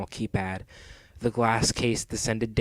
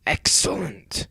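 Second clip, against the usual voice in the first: higher, drawn-out villain delight; pleased cartoon villain; happy; 6 semitones higher, slower than usual. A narrator's reading. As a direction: savour it happily. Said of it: "said Eggman happily".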